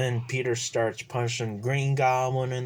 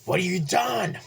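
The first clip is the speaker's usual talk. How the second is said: anguished cry; 8 semitones higher than usual. Retold or imitated. Harry cries out at Peter over his father's body.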